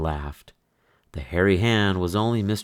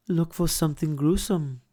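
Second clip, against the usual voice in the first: spooky tease; 10 semitones higher than usual. Acted. Fox teasing about spooky costume.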